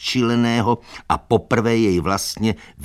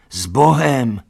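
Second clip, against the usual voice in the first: high, loud farewell call; 7 semitones higher, 7 dB louder, slower than usual. A narrator's reading. Animals bidding Boxer farewell, loud high call. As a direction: call goodbye after the cart. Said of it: "volali všichni".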